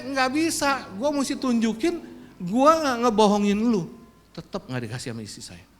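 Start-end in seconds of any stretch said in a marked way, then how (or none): 0.0-3.9 higher, louder stubborn thought; inward defiance. Retold or imitated. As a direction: refuse it fiercely inside. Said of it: "dalam hati saya".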